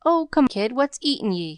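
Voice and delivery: scowling. A narrator's reading. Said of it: "scowled Jerry".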